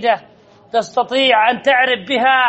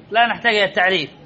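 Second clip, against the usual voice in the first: لا نحتاج إلى التعريف rattled off fast and softer, lower; teacher repeats the rule to students, quickly and more softly; 4 semitones lower, faster than usual. Shown as a demonstration. Teacher murmurs the rule again, fast and softer.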